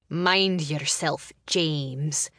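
slow, warning growl; low growl. Acted. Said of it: "her brother growled".

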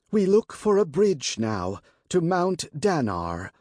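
high, ringing priestess voice; high and clear. Acted. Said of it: "her voice high and clear".

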